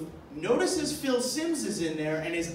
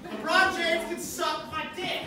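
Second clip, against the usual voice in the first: high-pitched mock rant at the TV; angry shout at the TV; 9 semitones higher than usual. Bar patron yelling at LeBron on TV, mock furious. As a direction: imitate a furious sports fan yelling. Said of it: "shouts at the T V".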